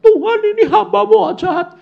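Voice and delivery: high, whining complaint to God; imitating the woman complaining to God, high whine; whiny complaining woman. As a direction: complain like a wronged crybaby. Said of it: "Terus dia lapor".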